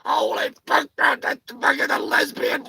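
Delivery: mock-hyped fan watching the soap; excited viewer. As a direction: cheer at the TV like it's a sports game. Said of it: "you're like".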